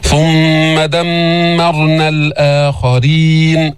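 very slow, drawn-out tajweed; Quran recitation. Shown as a demonstration. Teacher recites the whole verse, slow held recitation. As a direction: hum through the doubled mims.

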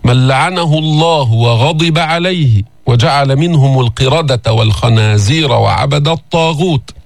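slow chanted verse; Quran recitation. Acted. Teacher quoting al-Ma'ida, slow recitation. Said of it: "وقال تعالى في المائدة".

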